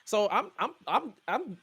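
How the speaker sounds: stammering through rising laughter; confused laughter. Real, not acted. Host baffled by the slang, confusion breaking into laughter. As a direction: get stuck on the words as laughter takes over. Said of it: "my confusion turns into laughter".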